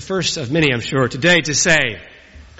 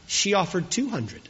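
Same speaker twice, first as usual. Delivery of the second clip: whisper back; 3 semitones higher, 7 dB quieter than usual. Retold or imitated. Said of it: "he whispers back".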